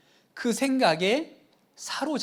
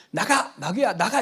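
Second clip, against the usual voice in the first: commanding rebuke. Retold or imitated. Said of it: "이렇게 하잖아요".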